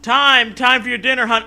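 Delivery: high, loud sing-song call; sweet mom call. Acted. Wife calling son to dinner, high sing-song.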